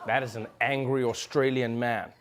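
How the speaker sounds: amused chuckle through the words; laughing at the clip. Real, not acted. Laughing comment.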